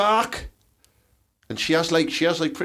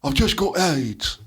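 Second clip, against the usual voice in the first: mild mock line reading; slower than usual. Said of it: "the speech he did".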